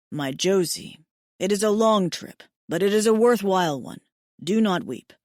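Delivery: a hint of a tender alien mate; Hayden's voice. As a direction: soothe her tears as her mate, calm and steady. Hayden voiced as male figure.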